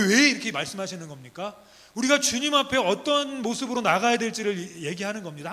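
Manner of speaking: ordinary delivery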